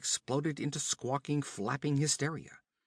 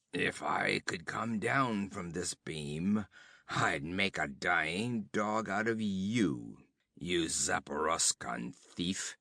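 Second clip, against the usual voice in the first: langsam, etwas rau, drohend; leicht gekrächzt; 3 semitones lower, slower than usual. Acted. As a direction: der Gefangene droht dem Räuber, schwach und rau. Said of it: "he rasped through blackened lips".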